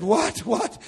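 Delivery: jolted, urgent asking; startled reply. Acted. Preacher answering brother's night call, startled.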